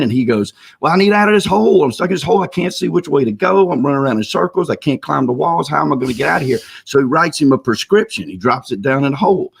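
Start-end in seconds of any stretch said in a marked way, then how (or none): 0.8-6.6 higher-pitched, mild mock yelling. Stuck man answers the psychiatrist, mild mock yell. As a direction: act out a trapped man's complaint without really shouting. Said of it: "And so he keeps yelling".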